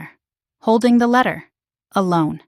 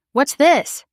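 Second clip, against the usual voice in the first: sharp mock yell, a bit higher; dad catching his daughter proposing, yelling; 6 semitones higher than usual. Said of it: "he yelled".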